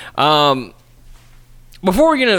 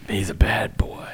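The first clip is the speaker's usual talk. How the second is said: soft unvoiced aside, a teasing hush; whispered aside; 4 semitones lower, 6 dB quieter than usual. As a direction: murmur it under your breath. Whispered aside about wrestler.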